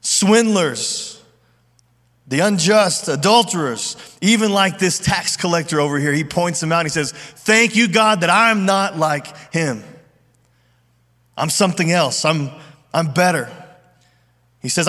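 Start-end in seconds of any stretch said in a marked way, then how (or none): 0.0-6.1 proud, raised voice, showing off to the crowd; loud boastful prayer. Retold or imitated. Pharisee praying loudly for all to hear, mildly loud and smug. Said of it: "he says in a loud voice". 7.1-13.5 smug boasting. Retold or imitated. Pharisee pointing at the tax collector, lightly voiced and smug. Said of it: "he says in a loud voice".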